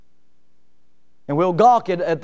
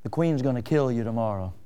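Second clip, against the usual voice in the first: grim messenger; 5 semitones lower, 4 dB quieter than usual. Retold or imitated. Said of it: "the messenger said".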